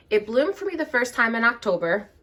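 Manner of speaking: hoarse, worn-out voice; losing voice. Real, not acted. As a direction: speak through a fading voice. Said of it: "I'm losing my voice".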